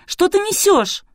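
very high, loud scolding; indignant outburst. A narrator's reading. Girl blasts Artur for talking nonsense, loud.

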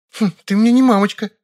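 put-on high, loud scoffing girl; snorting. A narrator's reading. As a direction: snort it back at him. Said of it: "фыркнула Вера".

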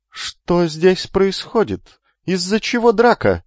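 high, slow arrogant question; haughty demand. Acted. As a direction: demand answers like a spoiled noble. Haughty noble youth demands.

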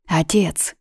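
неуверенно. A narrator's reading. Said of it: "немного неуверенно обратилась девушка".

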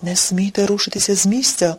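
plain reading voice

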